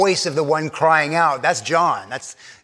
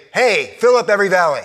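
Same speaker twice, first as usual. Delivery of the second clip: a brisk, louder offhand order; casual command; 4 semitones higher, 5 dB louder, faster than usual. Shown as a demonstration. Preacher mocking a casual order to the congregation, brisk and loud. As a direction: toss it off like a casual request. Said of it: "The voice doesn't say".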